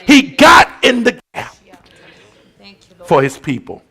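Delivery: steady, emphatic sermon teaching; preaching. Acted. Pastor explaining intercession to the church, emphatic. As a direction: hammer home the picture of the gap.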